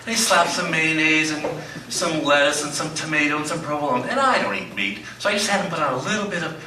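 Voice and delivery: mock sermon in the pastor's voice, building from hushed to big; Pastor Doug impression. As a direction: play the beloved pastor mid-sermon, milking every pregnant pause. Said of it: "this is my impression of you".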